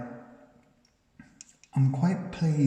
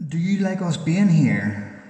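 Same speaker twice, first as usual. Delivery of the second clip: loud, raised question; loud, higher call into an empty house; calling out to a spirit; 4 semitones higher, 7 dB louder than usual. Real, not acted.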